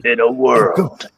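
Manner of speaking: slow trailer announcer; movie trailer voice. Pretend. Co-host joining the spoof trailer, slow movie trailer voice. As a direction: stretch it out like a film promo. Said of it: "I'm gonna do the movie voice".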